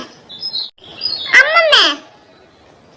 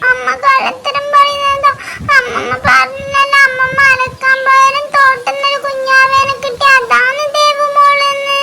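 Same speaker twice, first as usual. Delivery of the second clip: tearful insistence. Acted. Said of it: "ദേവുമോള് കരയുന്ന".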